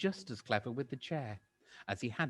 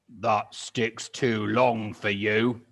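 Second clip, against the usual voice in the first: sly Mister Twit; 7 dB louder, much slower than usual. Acted. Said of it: "Mister Twit said to her".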